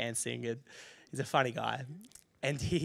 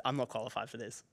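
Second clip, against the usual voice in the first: much quieter, lightly acted discouragement; dejected confession; 2 semitones lower, 9 dB quieter than usual. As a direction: admit defeat softly. Retelling discouraged confession to his wife.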